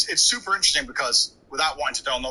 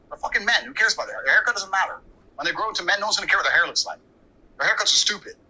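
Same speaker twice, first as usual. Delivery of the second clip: raised, furious retold rant; higher mock outburst of rage; dad losing his temper; 5 semitones higher than usual. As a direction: imitate an angry father yelling at mom. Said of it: "And my dad lost his temper".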